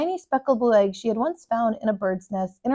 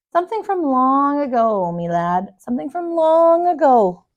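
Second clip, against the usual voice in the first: put-on old man voice; 4 semitones higher, 4 dB louder than usual. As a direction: spin it like an old yarn-teller. Old storyteller answers.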